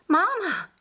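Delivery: a high, loud cry of alarm to her mother; calling out. A narrator's reading. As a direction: call out Mama in sudden fright. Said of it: "called Esther".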